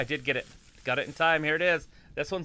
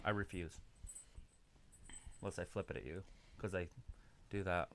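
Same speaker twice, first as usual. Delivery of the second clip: talking with a stick between teeth; muffled around a stick in the mouth; 8 semitones lower, 17 dB quieter than usual. Real, not acted. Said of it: "Stick in your mouth".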